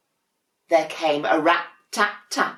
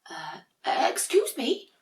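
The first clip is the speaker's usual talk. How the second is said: high, slow, hesitant; politely interrupt, a little shy; timid penguin; 10 semitones higher, slower than usual. Acted. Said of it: "said a penguin".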